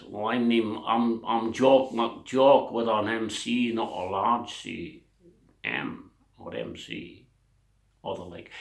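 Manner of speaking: slow, halting Scottish introduction; drawn-out, badly done Scottish accent; poor Scottish accent. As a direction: introduce yourself as a dodgy comic Scot. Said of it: "That's not a very good Scottish accent".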